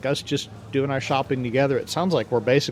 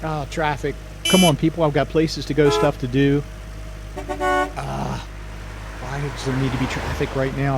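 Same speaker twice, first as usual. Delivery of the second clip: road rage. Acted. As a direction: fume at the cars ahead. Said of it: "a little bit of road rage here".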